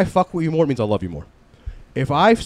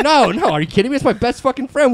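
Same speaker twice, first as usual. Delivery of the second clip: emphatic mock protest; 9 semitones higher, 6 dB louder than usual. Explaining to security guards.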